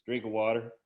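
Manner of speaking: punchline reply in a mock African-American accent; imitated African-American accent. Kid answering the principal's scolding, imitated African-American accent. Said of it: "in that African-American kind of accent".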